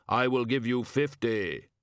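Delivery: brook no argument; cold insistence. Acted. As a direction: stranger overriding the shopkeeper. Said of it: "said the customer".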